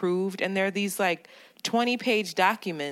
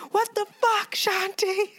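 squeaky exaggerated what the fuck, higher; high mock outrage; 14 semitones higher than usual. Pitched-up mock outrage at a friend who got the day wrong. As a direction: fake furious squeal at her friend. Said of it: "I'll be like".

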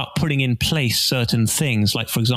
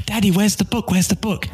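put-on disappointed kid; 6 semitones higher than usual. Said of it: "he's gonna go".

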